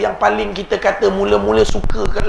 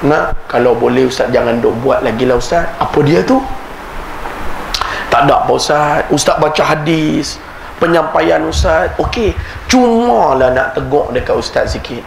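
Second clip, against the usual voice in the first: put-on Kedah accent; 3 semitones lower than usual. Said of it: "Saya ajuk orang Kedah".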